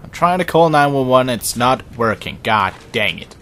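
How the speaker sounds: loud mock-exasperated complaint; exasperated outburst, easing slightly at the end; frustrated complaint. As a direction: complain loudly, letting the frustration show. Frustrated that telephone will not work.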